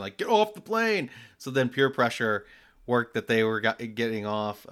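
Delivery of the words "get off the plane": high-pitched mock yell; raised-voice imitation of screaming passengers; retold passengers' scream. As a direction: imitate an angry crowd's shout, pitched way up. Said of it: "all the passengers started screaming at the person".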